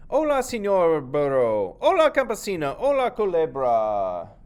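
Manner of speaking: loud, slow, high donkey voice; donkey greeting. Acted. The donkey greeting farmer and snake, loud and slow.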